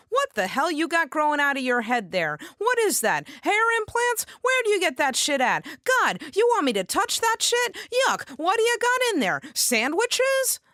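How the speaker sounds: put-on high, loud sassy Nuyorican girl; lightly voiced Puerto Rican stylist. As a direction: belt it out like a brassy salon girl. Stylist mocks her hair.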